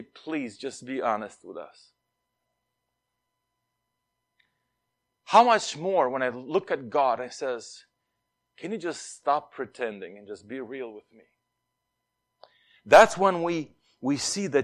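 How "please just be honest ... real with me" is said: gentle plea. Retold or imitated. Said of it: "we beg them".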